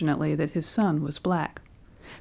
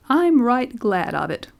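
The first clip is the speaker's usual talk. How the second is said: put-on higher, whining old man; 5 semitones higher than usual. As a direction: whine it out. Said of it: "whined the old man".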